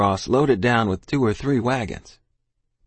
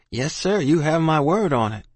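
higher, eager vow; earnest promise; 7 semitones higher than usual. Acted. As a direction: promise him with all your heart.

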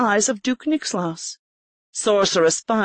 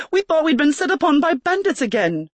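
Erica, startled; 9 semitones higher than usual. A narrator's reading. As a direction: gasp it out as a shaken noblewoman. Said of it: "Erica said".

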